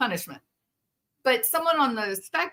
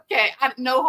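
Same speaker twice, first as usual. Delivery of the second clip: high laugh into okay I know; 5 semitones higher, faster than usual. Real, not acted. Speaker laughing at own Appalachia joke, laughing.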